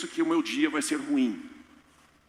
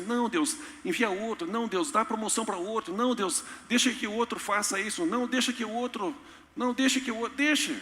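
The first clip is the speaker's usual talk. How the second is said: higher, whining to pass it on; mock whiny excuses; 5 semitones higher than usual. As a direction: plead to dodge the task. Believer making excuses. (fiel dando desculpas, choramingando)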